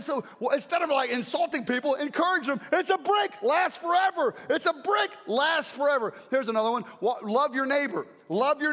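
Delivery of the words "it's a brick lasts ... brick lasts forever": emphatic slogan. Real, not acted. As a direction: drive the slogan home. Preacher hammering a slogan.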